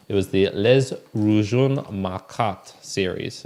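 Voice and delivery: slow attempt at "Les Rougon Marquart" in a French accent; careful French name. Real, not acted. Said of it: "mispronouncing all of this in the French accent".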